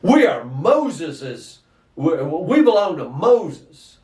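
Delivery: slow, smug "We are Moses's"; proud Pharisee. Retold or imitated. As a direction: puff up with religious pride, slowly. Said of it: "We're not even gonna say his name".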